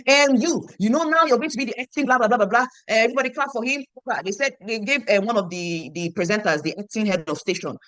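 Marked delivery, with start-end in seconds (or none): 0.1-3.8 louder, higher mock appointment; acted brisk announcement. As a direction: imitate an official briskly moving business along. Acting out brisk appointment of new head.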